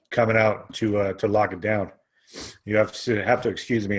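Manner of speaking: fighting off a sneeze mid-sentence; holding back a sneeze. Real, not acted. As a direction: talk while stifling a sneeze. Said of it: "I'm trying not to sneeze".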